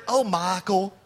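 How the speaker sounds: lightly imitated Southern mother-in-law; a hint of a real Southern drawl; mother-in-law's Southern accent. Mother-in-law answering his favorite joke, light Southern accent. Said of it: "That's my mother-in-law right there".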